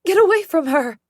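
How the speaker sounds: loud, high furious scream; mother's scream. Acted. Mother protecting her daughter, screaming loud and high. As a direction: shriek to pull the attacker off. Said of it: "as Mom screams".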